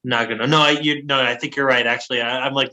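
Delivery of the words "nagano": Nagano tried out lower, NAH-guh-no; corrected pronunciation. Shown as a demonstration. Host checking the correction, Nagano with first-syllable stress. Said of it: "listening to the pronunciation".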